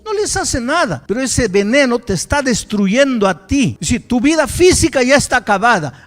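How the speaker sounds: loud, high, fiery preaching; forceful rebuke. Retold or imitated. Pastor to the bitter young man, loud fiery rebuke. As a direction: hammer the warning home.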